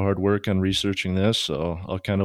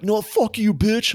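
high-pitched mock fury; squawked comeback, played for laughs; retold angry insult; 13 semitones higher, slower than usual. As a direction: imitate an irate scammer hurling insults. Retold shouting match with scammer.

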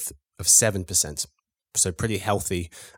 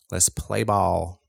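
slow, hammed-up American accent; mock American accent; much slower than usual. Host kicking off the game in a jokey American accent. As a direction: stretch it out like a bad American sportscaster. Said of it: "That was my best American accent".

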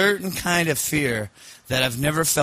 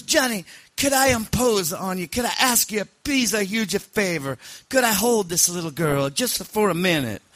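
put-on pleading, high-pitched Sicilian accent; Sicilian mob boss; 9 semitones higher than usual. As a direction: beg a favour as a hammed-up old Sicilian don. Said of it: "Sicilian mob boss once".

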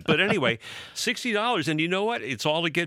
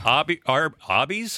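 put-on Boston accent on Arby's, slightly louder; 3 semitones higher, 3 dB louder than usual. Host jokingly saying Arby's in a Boston accent. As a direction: say Arby's like a Boston local, r dropped. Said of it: "That's my Boston accent".

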